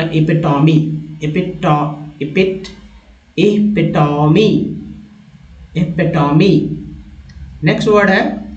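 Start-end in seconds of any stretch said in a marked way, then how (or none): 0.0-6.7 इपिटोमी repeated slowly, broken into pieces then whole; practice drill. Shown as a demonstration. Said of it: "इस तरह से practice करना होगा".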